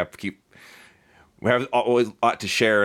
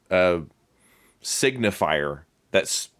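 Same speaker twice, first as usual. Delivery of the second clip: ordinary talk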